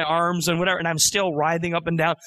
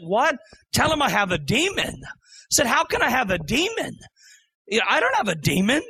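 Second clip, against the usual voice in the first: pitched up high, protesting in disbelief; can't believe what God just told him; incredulous disbelief; 5 semitones higher than usual. Retold or imitated. A man protesting to God, pitched-up disbelief. Hearing God say he has a demon.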